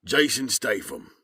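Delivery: slow Cockney accent. Shown as a demonstration. Narrator showing a trigger phrase for accents, Cockney. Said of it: "my trigger phrase for Cockney is".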